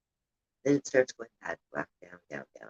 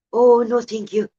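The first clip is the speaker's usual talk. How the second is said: light Scottish lilt, pitched up; polite Scottish old lady, lightly imitated; Scottish accent; 6 semitones higher, 5 dB louder than usual. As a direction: mimic a timid Scottish auntie, higher. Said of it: "in her Scottish accent".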